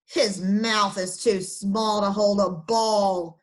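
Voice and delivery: slow sneering dog voice. Acted. German shepherd mocking Alfred's mouth, slow sneer. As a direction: sneer it slowly down at him. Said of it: "a big German shepherd sneered".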